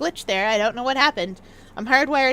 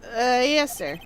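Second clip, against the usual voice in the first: nerd voice; 4 semitones lower than usual. Acted. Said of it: "actually nerd voice".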